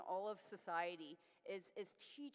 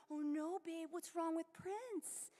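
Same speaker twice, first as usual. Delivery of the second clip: slow, higher, mildly alarmed; mock worried; 7 semitones higher, slower than usual. To fiancée about crying kitten, slow and mildly alarmed. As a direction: play up a little panic to your partner.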